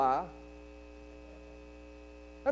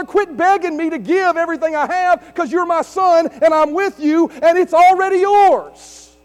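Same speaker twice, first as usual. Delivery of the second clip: father's firm reassurance; 5 semitones higher, 6 dB louder than usual. Retold or imitated. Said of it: "And he's saying".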